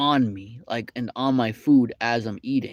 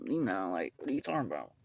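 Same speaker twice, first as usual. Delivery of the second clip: lower, softer, fast incredulous reply; stunned disbelief; 5 semitones lower, 9 dB quieter than usual. Retold or imitated. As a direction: react as if you can't believe it. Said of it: "I'm like".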